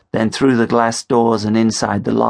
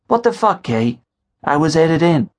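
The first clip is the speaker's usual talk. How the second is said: high indignant outburst; 7 semitones higher than usual. A narrator's reading. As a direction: protest being shut out. Shut out by Katie.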